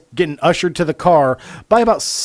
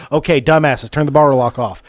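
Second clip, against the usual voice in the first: loud retold scold; mock scolding; 6 dB louder than usual. The narrator retelling Joey's line to the crew, loud mock scold. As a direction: repeat the insult with a grin.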